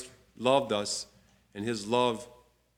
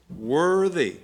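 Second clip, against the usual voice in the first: "Worthy" lifted and punched louder; stress on worthy; 3 semitones higher, 4 dB louder than usual. Shown as a demonstration. Bible teacher proclaiming the verse, stressing "Worthy". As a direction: hit "Worthy" hard, then fall. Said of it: "I emphasize that word worthy on purpose".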